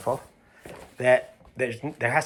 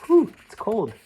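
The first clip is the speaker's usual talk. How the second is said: mock shiver; 10 semitones higher than usual. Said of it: "Just kidding".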